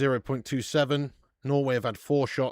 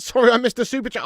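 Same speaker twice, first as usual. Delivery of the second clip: laughing apology; 9 semitones higher, 9 dB louder, faster than usual. Real, not acted. Laughing apology after super chat.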